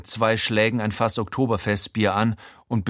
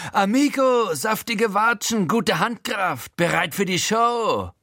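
much higher, strained thug voice; high, raspy-free mocking crook voice; wrecked Frankie voice; 11 semitones higher than usual. A narrator's reading. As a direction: sneer it out like a battered gangster. Frankie praises the slap.

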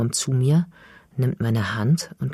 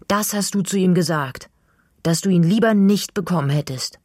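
higher and louder, reproachful; accusing; 6 semitones higher, 4 dB louder than usual. Acted. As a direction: throw it back at her. Accuses mother on son's behalf. (Mädchen wirft der Mutter ihre Worte vor, laut und höher)

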